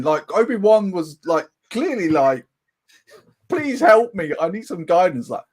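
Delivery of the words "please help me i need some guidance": high-pitched, hammed-up plea for help; playful desperate begging; mock pleading. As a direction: beg for guidance in a raised, imploring voice. Acting out Obi-Wan begging for help.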